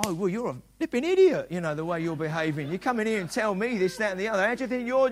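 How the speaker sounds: hammed-up indignant comeback; mock angry retort. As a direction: snap back like a riled pastor. Pastor acts out angry retort.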